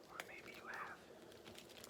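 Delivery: breathy spooky whisper, slow. Pretend. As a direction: hush it like a secret. Spooky echo of child's line.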